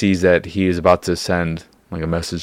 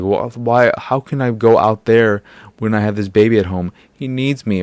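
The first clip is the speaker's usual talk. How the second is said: higher-pitched, pleading imitation; mock emotional mother; 4 semitones higher than usual. Mother protesting she can't leave her baby, mock-emotional. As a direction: plead like an upset mother, half-acted. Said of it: "she gets so emotional".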